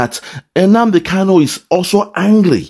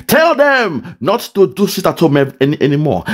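mildly angry order; 3 semitones higher than usual. Retold or imitated. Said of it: "he's angry".

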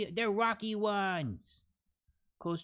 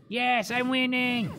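excited; 7 semitones higher, 6 dB louder than usual. Real, not acted. Winning in game.

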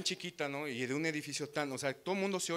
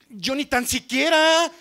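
flustered reply; 11 semitones higher, 13 dB louder, slower than usual. Retold or imitated. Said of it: "yo le alcancé a decir".

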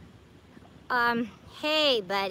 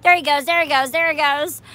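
excited spotting; 7 dB louder than usual. Real, not acted. Watching frog hop away.

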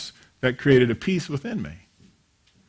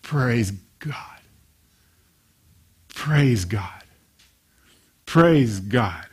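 whispered praise; 4 semitones lower, much slower than usual. Retold or imitated. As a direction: whisper it to hold back the temper. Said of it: "he goes".

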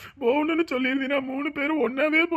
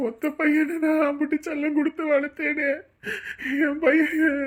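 tearful, rising lament; crying father; 3 semitones higher than usual. Acted. Father lamenting his only son, crying. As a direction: break down over the only son.

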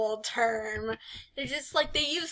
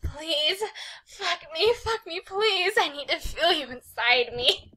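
begging; 5 semitones higher than usual. Acted. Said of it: "Haruka's be-, begging ones".

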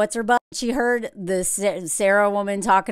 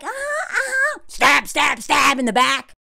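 mock fake agreement; 3 semitones higher than usual. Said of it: "instead of being like".

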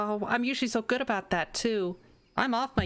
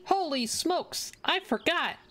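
surprised; 8 semitones higher, slower than usual. Real, not acted. Shocked at own mistake.

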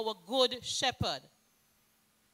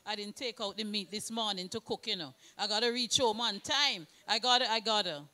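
hurried inner thought; 5 semitones lower, 3 dB quieter, faster than usual. Retold or imitated. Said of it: "they're thinking".

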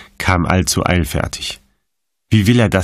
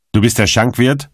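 higher, mock thundering demand; 6 semitones higher than usual. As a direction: roar at the innkeeper. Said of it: "donnerte Kettler". (gespielt donnernd, höher)

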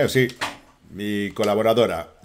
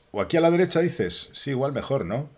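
ordinary delivery

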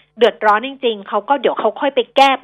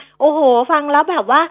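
mock exclamation; 6 semitones higher, 5 dB louder than usual. Host imitates a listener reacting to her style, mock exclaiming.

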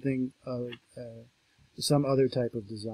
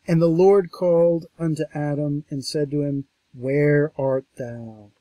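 scripture reading; 6 dB louder than usual. Acted. Lecturer reading God's call to Adam, solemn. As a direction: stretch out where art thou. Reads the verse.

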